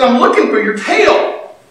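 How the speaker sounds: a hint of a four-year-old answering mom; little girl. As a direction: innocent child's reply, lightly imitated. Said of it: "the little girl, she's probably four or five".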